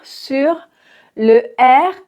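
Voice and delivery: sur with a barely sounded final R; sur, R very light. Shown as a demonstration. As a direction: soften the R of sur. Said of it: "on le prononce très légèrement".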